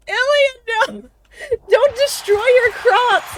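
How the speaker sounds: high pleading cry; panicked yelling. Real, not acted. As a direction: beg them to stop, panicked. Panicked plea at game.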